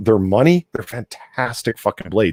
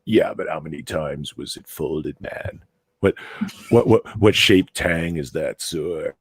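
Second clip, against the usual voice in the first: slow, lower, snotty neckbeard whine; 4 semitones lower, slower than usual. Retold or imitated. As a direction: drawl it like a smug neckbeard. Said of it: "snotty neckbeard voice".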